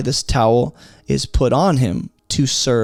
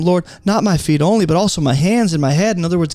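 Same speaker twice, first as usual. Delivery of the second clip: higher, hurried pleading of a disciple; eager Simon Peter; 5 semitones higher, faster than usual. Acted. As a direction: blurt it out as an over-eager follower. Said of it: "Simon Peter said to him".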